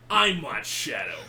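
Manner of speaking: slow, lightly voiced edgy hedgehog; Shadow voice. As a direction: read it as a smug edgy persona, slowly. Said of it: "in Shadow's voice".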